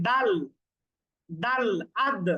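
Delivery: "আদ" ending in a hard dal that stops the sound with a bounce; hard stopped dal. Shown as a demonstration. Teacher demonstrating a hard dal to students. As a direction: strike the dal firmly in "দাল" and "আদ". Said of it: "দাল খুব কঠিন করে উচ্চারণ করি".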